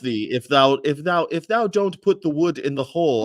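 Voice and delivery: mock ye-olde declaiming; mock archaic speech. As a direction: play a five-hundred-year-old English speaker, lightly. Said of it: "born five hundred years ago".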